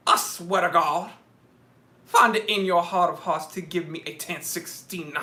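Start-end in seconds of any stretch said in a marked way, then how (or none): 2.0-5.1 lightly voiced Southern preacher; Southern televangelist. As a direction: plead with a touch of Southern evangelist. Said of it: "I just need to be Southern".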